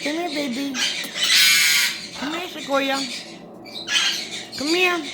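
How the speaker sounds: high, sing-song pet call; high coaxing call. Real, not acted. Owner calls her parrot to come over, high coaxing.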